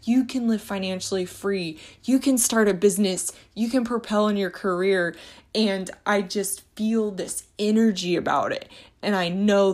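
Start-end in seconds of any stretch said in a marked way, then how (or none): 0.0-5.1 fired-up encouragement, higher, a burst of loudness at the start; imitating her own excited money pep talk; cheerleading a friend out of debt, eager and upbeat; hyped-up pep talk. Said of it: "my husband makes fun of me because I'm like".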